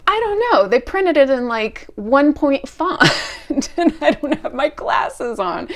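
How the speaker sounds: flustered and panicking; frantic, flustered replay of her own panic; stressed panic. Retold or imitated. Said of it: "I'm so stressed".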